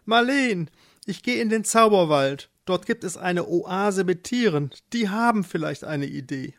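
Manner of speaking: lightly voiced eager husband; hopeful husband. Eduard tells wife of the forest, hopeful.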